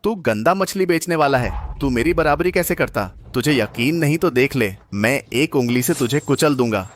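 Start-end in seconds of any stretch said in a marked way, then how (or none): 0.0-3.0 scornful taunt. Acted. Rival belittles fish seller.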